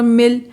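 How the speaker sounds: मिल with a very short i; short vowel. Shown as a demonstration. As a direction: keep the i in मिल brief. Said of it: "आई को हम बहुत कम duration दे रहे हैं".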